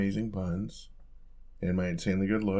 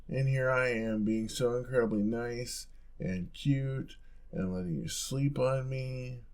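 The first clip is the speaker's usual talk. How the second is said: mock hurt whine; 4 semitones higher, slower than usual. Mock hurt whining at partner.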